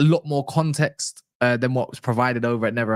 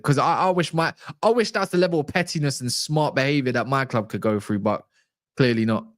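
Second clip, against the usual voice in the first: a lightly done Chelsea-fan accent, badly held; hammed-up football fan accent, half-hearted; bad put-on accent. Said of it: "that was probably the worst accent ever".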